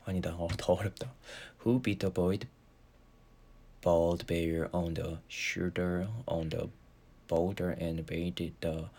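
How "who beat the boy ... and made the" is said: very slow, halting drill; slow tongue twister. Shown as a demonstration. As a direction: grope slowly through the twister. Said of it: "발음 연습하거든요".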